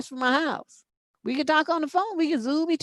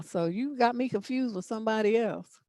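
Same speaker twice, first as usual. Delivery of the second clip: ordinary talk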